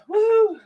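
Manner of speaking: high, loud "woo"; whoop. Real, not acted. Host cheering on a day of housework, high whoop.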